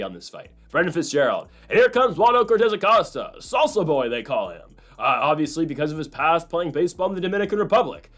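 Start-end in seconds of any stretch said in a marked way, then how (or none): 1.7-8.1 mock commentator. Host imitating a commentator, a lightly hammed play-by-play call. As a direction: announce the fighter like a UFC caller. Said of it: "this is what the commentary is gonna be".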